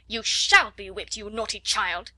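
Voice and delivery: loud, slow stern threat; angry threat. Acted. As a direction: thunder the punishment down. Headmistress threatening screaming child.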